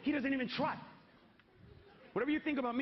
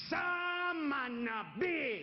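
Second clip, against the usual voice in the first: slurred, stretched out slowly and long; hammed-up slurred greeting from the brother; drunken slurred greeting; 3 semitones higher, much slower than usual. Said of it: "exactly what I heard come out of his mouth".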